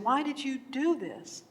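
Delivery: a touch of exasperation, voice lifted; frustrated. Acted. Peasant to owl after the deer runs away, mildly frustrated. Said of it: "now he's frustrated".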